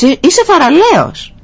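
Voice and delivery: high, ringing father's call; encouraging shout. Retold or imitated. Father shouts praise into the mountains for his son, ringing call. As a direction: call it out across the hills. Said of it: "Φώναξε πίσω ο μπαμπάς".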